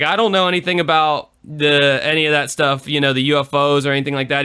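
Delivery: a hint of folksy denial; mock Clinton. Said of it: "He's like".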